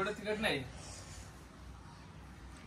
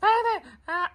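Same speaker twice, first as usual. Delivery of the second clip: high coaxing; 4 dB louder than usual. Real, not acted. Coaxing her to eat more.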